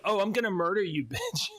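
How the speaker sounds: a fake tough-guy growl breaking into a laugh; mock murderous threat. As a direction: play at a cartoon killer, then crack up. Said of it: "That is like".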